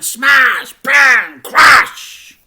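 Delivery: high, loud rising crashes; a narrator calling out a pileup; sound effects. A narrator's reading.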